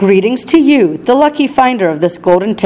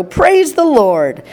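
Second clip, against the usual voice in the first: high and very slow, each word stretched; jubilant cry; 7 semitones higher, much slower than usual. A narrator's reading. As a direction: grandfather celebrating the factory visit, high and stretched out. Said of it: "yelled Grandpa Joe".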